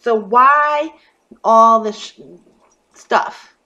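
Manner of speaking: real frustrated outburst; exasperated outburst. Real, not acted. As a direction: let the frustration burst out. Fed-up rant at the group.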